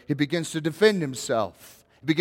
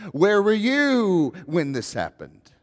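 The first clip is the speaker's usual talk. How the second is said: slow, weighty questioning as God; a lightly voiced God asking Job, slowly; voicing God; 3 semitones higher, slower than usual. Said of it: "open-ended questions".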